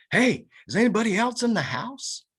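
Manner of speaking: loud, high call into the house; yelled out. Retold or imitated. Calling out inside a dark house, loud shout. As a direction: shout to find anyone inside. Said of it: "I yelled".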